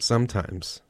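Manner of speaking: "sometimes" set off in audible air quotes; air-quoted. Shown as a demonstration. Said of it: "I'm gonna do the air quote".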